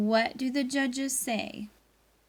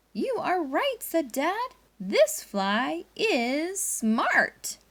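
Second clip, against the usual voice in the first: dad's won-over voice; 8 semitones higher, 4 dB louder, much slower than usual. Acted. Dad character voiced in story.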